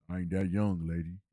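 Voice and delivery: lightly voiced old man; a hint of a grumpy old man. Quoting the teen character to a woman, lightly old-voiced. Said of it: "he was talking like this".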